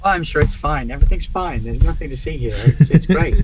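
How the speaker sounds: forced reassurance. Acted. Driver under pressure reports on the driving, forced reassurance. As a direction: insist too hard that all is fine.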